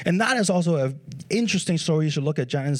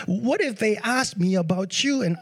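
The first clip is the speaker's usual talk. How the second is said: mildly anxious, higher-pitched pleading; Moses, reluctant; 5 semitones higher than usual. Acted. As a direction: make worried excuses, pitch lifted. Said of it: "He was doubtful. He didn't want to go".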